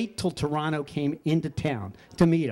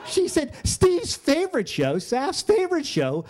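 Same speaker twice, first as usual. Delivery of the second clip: much higher, laughing through the words; 7 semitones higher than usual. Real, not acted. Telling the audience what the widow said, laughing through it. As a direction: tell it while cracking up.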